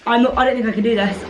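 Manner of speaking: straining under weight; strained, lifting something heavy; carrying heavy load. Real, not acted. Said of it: "I can't do this".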